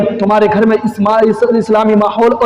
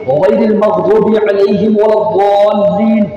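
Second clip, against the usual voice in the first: prayer recitation. Acted. Preacher reciting the prayer for the congregation, chanted. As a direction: recite each verse steadily, like at prayer.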